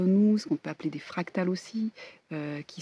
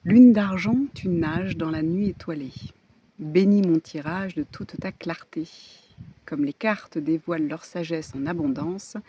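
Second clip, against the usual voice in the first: solemn invocation; 4 dB louder than usual. Acted. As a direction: chant it like a ritual prayer. Reads a moon card invocation. (invocation solennelle)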